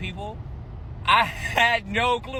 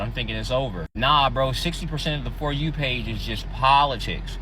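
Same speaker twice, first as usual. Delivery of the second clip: wearing a retainer; 6 semitones lower than usual. Real, not acted. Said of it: "I got my, uh, retainers in, so I might be talking a little weird".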